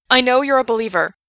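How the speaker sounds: high passionate yell. A narrator's reading. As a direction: shout it with conviction. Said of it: "Gerard yelled".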